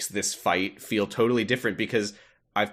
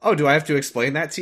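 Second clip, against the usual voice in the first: fast, higher, pointed tone; mock condescending; 6 semitones higher, 4 dB louder, faster than usual. Real, not acted. Teasing friend with a condescending tone. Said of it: "Don't say it like that".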